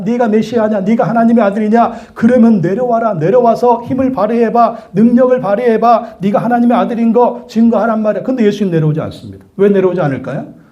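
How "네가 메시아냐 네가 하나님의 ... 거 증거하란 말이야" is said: higher-pitched taunting challenge; hammed-up jeering soldiers; mocking. Soldiers dare Jesus to come down, mocking. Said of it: "군인들도 조롱합니다".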